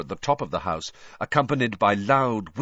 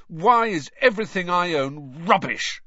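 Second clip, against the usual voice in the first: louder, higher outburst; furious; 9 semitones higher, 6 dB louder than usual. A narrator's reading. Boy raging about his second-hand things, loud furious cry. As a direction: let it burst out in fury. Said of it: "said Ron furiously".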